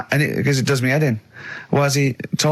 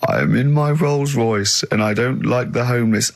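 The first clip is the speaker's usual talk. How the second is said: slow, lightly put-on posh voice; a hint of a haughty posh snob; posh bloke; 2 semitones lower, slower than usual. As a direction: sneer it like a rich toff in his Rolls. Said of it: "a posh bloke who doesn't care about poor people".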